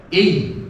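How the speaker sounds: "I" closed on a held y; first ya with sukun. Shown as a demonstration. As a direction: say "I" as a closed syllable ending in y. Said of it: "Ya yang pertama disukun".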